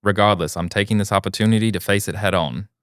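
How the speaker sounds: put-on British accent. Reading a listener's update in a mock British accent. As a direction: read it out as a mock British guy. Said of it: "some fucking British guy takes over".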